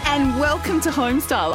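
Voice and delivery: bright, upbeat welcome; sunshine voice. Real, not acted. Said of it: "I'm loving your sunshine voice".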